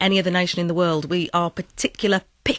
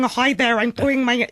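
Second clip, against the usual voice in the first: big brash American; 5 semitones higher than usual. Acted. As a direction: burst in with a brash fake American accent. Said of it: "it's not big and bold and brash".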